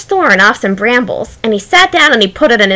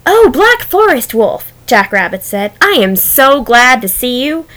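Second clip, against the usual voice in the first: fake cheerful greeting. Rabbit greeting wolf.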